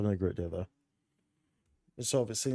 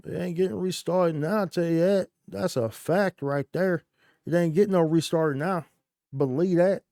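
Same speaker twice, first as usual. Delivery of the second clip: higher, louder hype rant; hyped rant; 7 semitones higher, 6 dB louder than usual. Real, not acted. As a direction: hype it up like a streamer.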